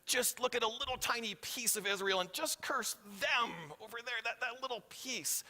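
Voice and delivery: quiet hint of a pushy ruler; Balak's voice. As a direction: coax and point like a shady king. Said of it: "Balak gets the whole thing going".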